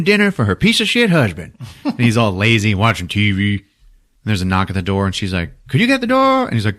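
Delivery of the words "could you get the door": high, light wife voice; put-on high housewife voice; acted wife's request. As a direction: call to a husband across the house. Wife asks husband.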